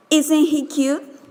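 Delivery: "Isn't he cute" lifting into a question on "cute"; slow question, pitch climbing at the end of "cute"; low rise. Shown as a demonstration. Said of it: "Low rise".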